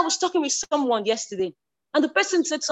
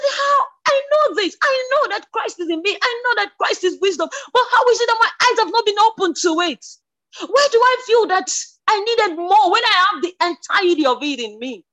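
high, loud, nearly crying out; retold scream; 5 semitones higher, 3 dB louder than usual. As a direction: relive the shock of that moment, crying out. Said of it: "And I screamed".

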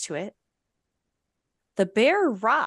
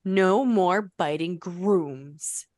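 growled; slower than usual. Acted. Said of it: "he growled at the stallion".

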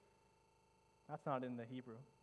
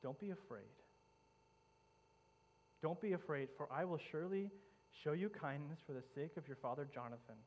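gentle reassurance. Acted. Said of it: "spoke these life-changing words".

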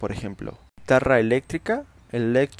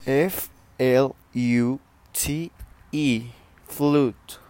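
spelling out; slower than usual. Shown as a demonstration. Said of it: "decimos flute".

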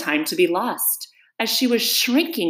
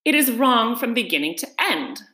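higher, firm verdict; decided; 4 semitones higher than usual. Acted. Caterpillar judges Alice's recital, decided. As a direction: pass judgement with mild finality. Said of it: "said the caterpillar decidedly".

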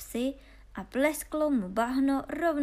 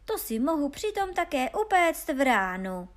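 higher, louder cheeky village lad; cheeky simpleton Honza; 5 semitones higher, 5 dB louder than usual. Acted. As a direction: boast it like a cocky simpleton. Honza se chlubí nápadem. (drzý hloupý Honza, hlasitěji a výš)

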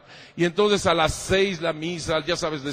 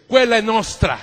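Italian quote; 2 semitones higher, 6 dB louder than usual. Retold or imitated.

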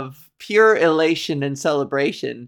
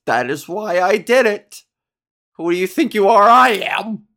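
imitated bowler's outburst; 3 semitones higher, 4 dB louder than usual. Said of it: "It's a legendary quote".

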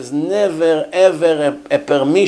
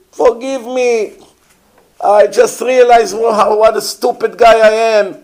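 imitating a repentant murderer begging, pitch climbing higher; a hammed-up plea for forgiveness that builds louder and higher; mock pleading Hitler; 4 semitones higher, 4 dB louder than usual. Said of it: "Imagine Hitler".

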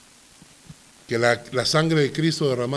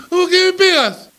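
put-on high, louder wail of a hurt small child; crying little boy; 6 dB louder than usual. Small son crying at his father after a slap, high wail. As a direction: whine it like a toddler just smacked. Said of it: "se puso a llorar y me dijo".

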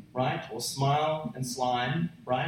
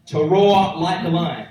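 to roar like a lion, punched louder; louder repeat; 7 dB louder than usual. Shown as a demonstration. Preacher repeating the meaning to the congregation, louder. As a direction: push "roar" out louder the second time. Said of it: "And it means this".

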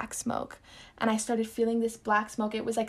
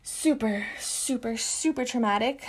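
each "super" leaned on, building to "super traumatic" with a rise; emphasis on super. Real, not acted. Telling viewers how traumatic the trip was, stressing "super". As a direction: press hard on every "super". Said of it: "I put emphasis on that".

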